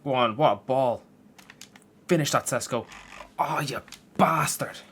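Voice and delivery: loud, rising shout at the screen as a chance goes begging; excited shout. Real, not acted. Gamer yelling at his striker to finish. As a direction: urge the striker on, then groan at the miss. Live FIFA match, chance missed.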